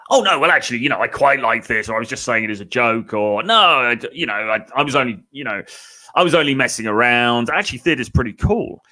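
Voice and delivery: put-on a guy backpedaling to the girl, nervously over-explaining. A guy backpedals to a girl, fumbling excuses. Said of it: "backpedal and say".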